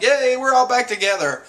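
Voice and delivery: high, loud yay; mock joyful cheer. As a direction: act out an overjoyed crew member. Acted cheer at crew reunion.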